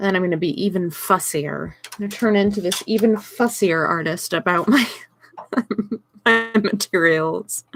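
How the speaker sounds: prissy, precious artist voice; mock fussy artist. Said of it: "That's my fussy artist voice".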